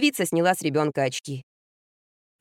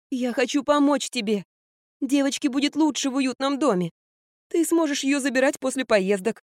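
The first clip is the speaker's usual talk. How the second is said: lightly voiced insistent mother; 4 semitones higher than usual. Mother pleading for the granddaughter, lightly voiced. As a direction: argue her case to the daughter.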